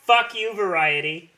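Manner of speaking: loud, high angry shout. Real, not acted. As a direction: yell it at Variety. Ranting at Variety.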